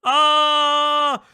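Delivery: a loud, high, near-crying cry of laughter; laughing wail. Real, not acted. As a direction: let the laugh break into a wail. Laughing after mocking impression.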